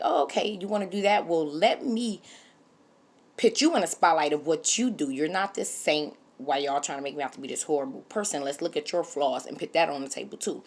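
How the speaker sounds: retold, half-acted indignation; indignant comeback. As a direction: fire back like she's had enough of being ganged up on. Voicing Annie confronting his family.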